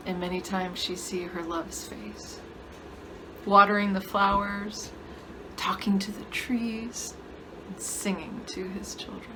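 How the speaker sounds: soft, unhurried tale fading to a whisper; hushed, lingering narration; wistful storytelling. Acted. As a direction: tell it gently, phrase by phrase.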